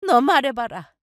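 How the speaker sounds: high-pitched challenging mother-in-law; indignant self-justification. Acted. Mother-in-law defends asking for birthday meal, high indignant challenge. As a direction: demand an answer, pitch climbing.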